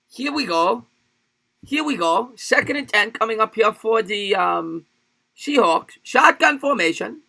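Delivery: high-pitched mock Chinese accent play-by-play; attempted Chinese accent. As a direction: call the game in a put-on Chinese accent. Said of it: "Call the game with a Chinese accent".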